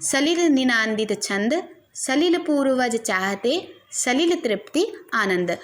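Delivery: slow, drawn-out recital of a Hindi couplet; slow poem recitation. Acted. Teacher reciting a couplet to the class, slow and measured. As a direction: recite each half-line slowly with a lingering rise.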